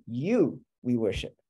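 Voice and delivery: slow, with weight on "You" at the front; emphasis on You. Shown as a demonstration. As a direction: set "You" apart first, then "we worship". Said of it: "do emphasis on you".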